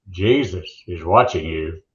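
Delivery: low slow mock parrot warning; eerie parrot voice. Parrot voice in told joke.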